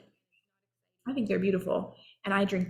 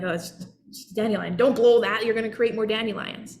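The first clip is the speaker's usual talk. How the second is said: mock scolding parent, louder on the don't; dismissive parent; 3 dB louder than usual. Parent shutting down the child's dandelion fun, mock scolding. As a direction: brush off the kid, then snap a warning. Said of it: "Or I can be like".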